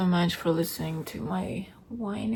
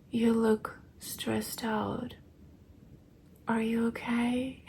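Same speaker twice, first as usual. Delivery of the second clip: gentle concern; slower than usual. Retold or imitated. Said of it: "she was so sweet".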